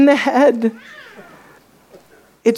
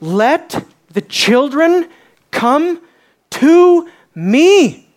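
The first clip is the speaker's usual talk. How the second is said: indignant Jesus; 4 semitones higher, much slower than usual. Acted. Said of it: "His voice is filled with communication that he's not happy".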